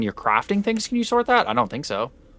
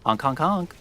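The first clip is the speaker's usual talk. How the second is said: silly clown; 4 semitones higher than usual. Pretend. Chat redeemed daily honk.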